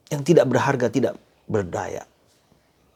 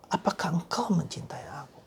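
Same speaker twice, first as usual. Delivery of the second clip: whispered question; 3 semitones higher, 7 dB quieter than usual. Acted. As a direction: breathe the question tenderly. Jesus' question whispered again.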